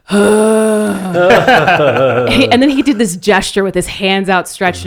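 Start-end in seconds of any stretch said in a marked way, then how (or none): 0.0-2.3 loud exasperated huh sound; frustrated huff. Retold or imitated. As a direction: imitate mom's frustrated grunt, eyes rolled up. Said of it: "And he goes".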